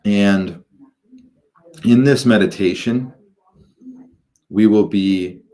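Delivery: measured, halting guidance into meditation; guided meditation. Acted. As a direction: guide listeners gradually, drawing out phrases and pausing between them.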